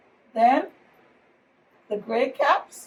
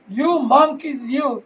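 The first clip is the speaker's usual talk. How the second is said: scolding monkeys; 6 dB louder than usual. Acted. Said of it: "he said, shaking a finger".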